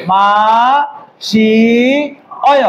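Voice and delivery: মা, সি, অয় as separate sounds with long gaps; drawn out syllable by syllable: মা... সি... অয়; uncontracted form. Shown as a demonstration. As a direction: keep সি and অয় apart, unmerged. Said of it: "এটা মূলত হওয়ার কথা ছিল".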